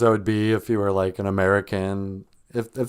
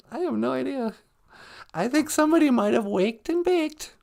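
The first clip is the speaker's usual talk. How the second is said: very high, squeaky little character voice; high-voiced sidekick. Sidekick chatting with the host about the show, high character voice. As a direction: play the host's high-pitched little sidekick.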